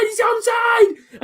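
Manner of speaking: high, slow stretched-out yell; drawn-out shout. Real, not acted. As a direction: hold every word in triumph. Celebrating a goal on stream.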